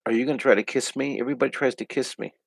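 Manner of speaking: a hint of a wary little frog asking a question; cartoon frog talking. Art teacher voicing the drawn frog to viewers, lightly puzzled. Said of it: "He's like".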